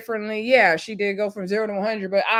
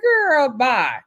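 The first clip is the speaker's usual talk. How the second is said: dismissive; 3 semitones higher, 3 dB louder than usual. Retold or imitated. Own dismissive reaction to retold complaint.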